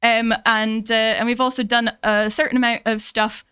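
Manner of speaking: chatty Scottish accent, easing into it. Shown as a demonstration. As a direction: talk casually in a Scottish lilt. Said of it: "I can bring it out a bit".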